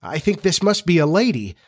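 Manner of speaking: understated fear with lifted pitch; a touch of scared wonder. Acted. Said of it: "he said in a scared voice".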